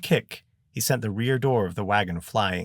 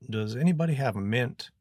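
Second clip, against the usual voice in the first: put-on mild accent between Kentucky and Cockney; lightly mix Kentucky with a little Cockney; 3 semitones higher than usual. A narrator's reading. Queasy boy asking for a mint, light Kentucky-Cockney accent. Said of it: "His accent was a little more Kentucky and a little less Cockney".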